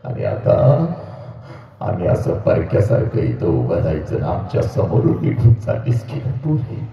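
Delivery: mother's wail. Acted. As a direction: lament like a mother losing her daughter. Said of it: "पहिला हंबरडा तुझी आई फोडते पोरी".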